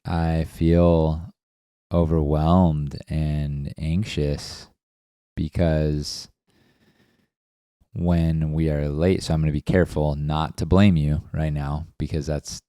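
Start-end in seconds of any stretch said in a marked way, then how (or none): 0.0-9.2 slow, measured naming of feelings; calm feeling statement. Acted. To a partner, in a role-play of fighting the proper way, slow and calm. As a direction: lay each feeling out slowly and gently. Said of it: "act it out in the proper way".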